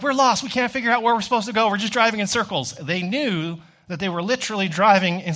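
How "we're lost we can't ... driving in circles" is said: higher, faster mock-frantic confession; flustered admission. Mom and brother admit they are lost, mock frantic. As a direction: blurt it out, flustered. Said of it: "They're like".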